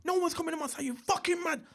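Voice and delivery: high, furious re-enacted protest; angry high-pitched shouting, acted out; going mad. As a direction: rail at everyone around, voice pitched right up. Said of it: "I'm going mad now".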